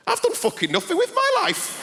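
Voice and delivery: high, loud panicked cry; panicked wail. Retold or imitated. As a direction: blurt it out in horror. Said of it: "And I thought".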